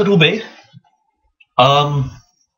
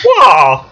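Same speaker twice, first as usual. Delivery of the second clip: rock smashing noise; 4 semitones higher, 7 dB louder than usual. Retold or imitated. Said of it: "the official rock smashing noise".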